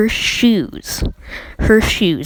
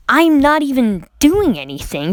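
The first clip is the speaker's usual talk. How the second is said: higher, mock-exasperated kid protest; retold indignant whine of innocence; 5 semitones higher, 3 dB louder than usual. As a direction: act out a wronged kid objecting. Kid protests to scolding teacher.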